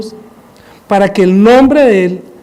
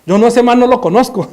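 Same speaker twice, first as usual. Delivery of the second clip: 1 cursing Peter; 4 semitones higher than usual. Acted. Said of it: "comenzó a maldecir".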